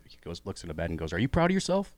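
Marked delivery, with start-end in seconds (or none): 1.1-1.9 imitated heckler, louder and much higher; heckler's challenge. Heckler at stair top to the comic, challenging. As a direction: call it out high and loud, as a heckler.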